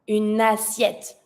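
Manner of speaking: une assiette joined by the n, slowly; linked words. Shown as a demonstration. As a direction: run une straight into assiette. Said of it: "and I connect".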